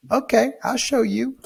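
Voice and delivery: high, far-off mock threat from the tenant; threatening tenant. Angry tenant hanging up on the landlord, high mock threat. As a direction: ham up her spiteful warning, way up high. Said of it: "And she goes".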